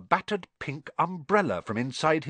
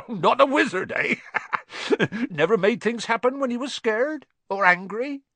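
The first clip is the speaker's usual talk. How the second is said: higher, laughing through the words; amused; 11 semitones higher, 3 dB louder than usual. Acted. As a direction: tease him fondly. Hagrid amused at Harry.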